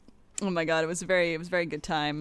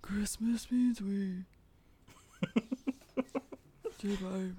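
whispering; 2 semitones higher, 6 dB quieter, slower than usual. Pretend. Whispered song lyric.

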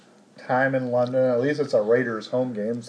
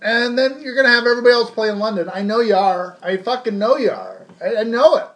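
mock rant; 4 semitones higher than usual. Real, not acted. Ranting at NFL spy.

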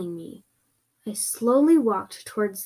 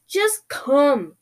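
insistent raised-pitch order; mild shout; 5 semitones higher, 4 dB louder than usual. Acted. Creepy voice ordering the reluctant visitor, mild shout. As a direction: order them over, fairly forcefully. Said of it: "shouted the voice".

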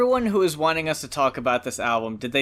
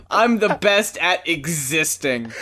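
mock humble brag; slower than usual. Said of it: "The best humble brag".

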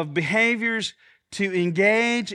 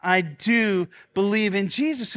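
pastor leading the church in a creed, deliberate; led confession; 3 dB louder than usual. Shown as a demonstration. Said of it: "Say it with me one time".

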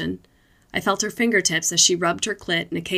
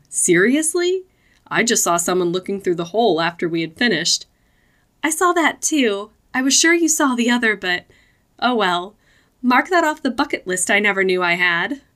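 put-on giddy girlfriend voice; 4 semitones higher, 4 dB louder than usual. Giddy recap in the car.

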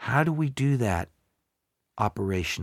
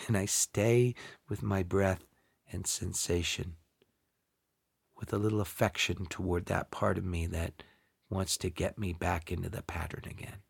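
guided meditation; 3 semitones lower, 6 dB quieter than usual. Acted. Leads a meditation, softening.

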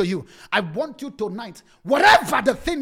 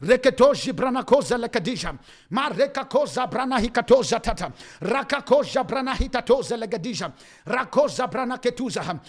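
speaking in tongues. Acted. Prays in tongues.

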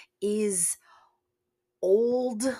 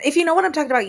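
high, loud burst of recognition; excited exclaim; 10 semitones higher, 9 dB louder, much faster than usual. Real, not acted. To listeners who remember sun reflectors, a loud high exclaim. Repeated phrase, first take exclaimed.

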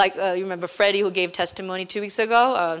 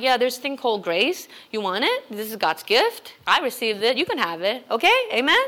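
hollow detached pitch; 3 semitones higher than usual. Retold or imitated. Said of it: "You're gonna be just saying".

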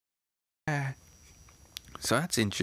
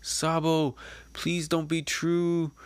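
mild tearful plea; 6 semitones higher, slower than usual. Acted. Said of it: "Koala tearing up".

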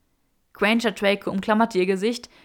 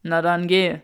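snort; 3 semitones lower, 5 dB louder than usual. A narrator's reading. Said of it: "schnaubte Draco".

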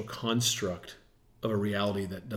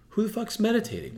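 incredulous; 10 semitones higher, faster than usual. Real, not acted. Mocking rhetorical question.

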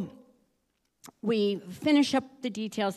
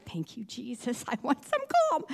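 laughing relief; 3 semitones higher than usual. Retold or imitated. Woman retelling relief on the plane, laughing thanks. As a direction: sigh of relief then laugh.

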